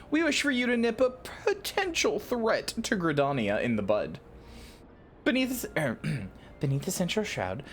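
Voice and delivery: lightly voiced leader briefing a recruit; formal commander. Lewin asking an adventurer to handle cultists, lightly acted formal briefing. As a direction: read it as a measured, slightly theatrical officer. Reads game character Lewin's dialogue.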